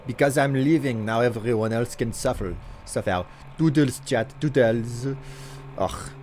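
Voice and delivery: put-on a light, steady French accent while chatting. Streamer doing a redeemed accent for chat, lightly French. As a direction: keep a mild French accent going. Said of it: "I was told to do an accent".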